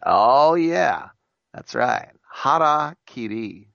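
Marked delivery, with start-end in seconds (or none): 2.3-3.7 "Harakiri" said slowly the way Harry Carey said it; "Harakiri" slowly drawn out, mimicking Harry Carey; Harry Carey's pronunciation. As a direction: imitate the announcer saying "Harakiri". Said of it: "as he pronounced it".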